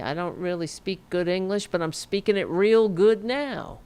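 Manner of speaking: lightly voiced drill sergeant, building in force; drill sergeant imitation. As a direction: quote a sergeant with rising punch. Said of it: "like my drill sergeant said".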